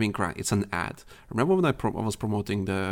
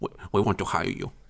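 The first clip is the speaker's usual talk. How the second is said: put-on businessman voice. Joking about a business offer after a podcast: imitating an Asian businessman. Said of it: "Asian businessman comes in".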